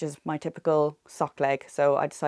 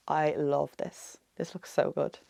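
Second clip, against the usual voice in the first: vocal fry; 4 dB quieter, slower than usual. Real, not acted. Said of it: "I'm sorry for my vocal fry today".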